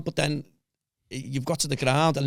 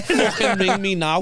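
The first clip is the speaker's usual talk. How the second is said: slow, louder and higher mock of the wife; wife's curt text, hammed up slow and loud; quoting wife's angry text; 7 semitones higher, 5 dB louder, slower than usual. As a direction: read it out like a furious order, slowly.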